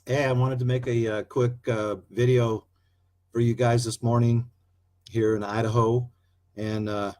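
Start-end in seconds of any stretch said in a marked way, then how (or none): 5.1-6.1 Idaho drawl. Shown as a demonstration. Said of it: "you like that little accent there?".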